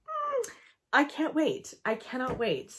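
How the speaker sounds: ordinary talk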